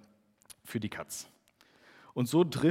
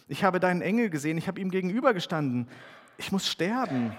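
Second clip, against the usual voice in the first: fast, raised, panicked; hurried fearful cry; 5 semitones higher, faster than usual. Acted. Gideon realizes he saw the angel and fears death, hurried panicked cry. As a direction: blurt it out in sudden dread. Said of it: "rief er".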